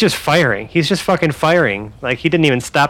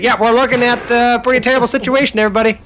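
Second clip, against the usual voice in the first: flat announcement; 8 semitones higher, faster than usual. Retold or imitated. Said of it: "You're just like".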